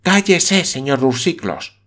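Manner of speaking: high, sharp hush-up; sharp command. Acted. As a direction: shut him up at once. Campbell silences him.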